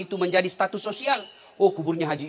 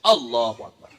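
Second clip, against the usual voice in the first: Abu Nawas's takbir; 7 semitones lower, 3 dB louder than usual. Acted. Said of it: "Takbir pertama juga Abu Nawas".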